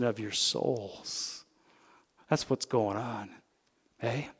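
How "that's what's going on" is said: Canadian vowel in "on", said softly; Canadian accent. Real, not acted. Pastor catches his own Canadian accent on "going on". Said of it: "there's my Canadian accent".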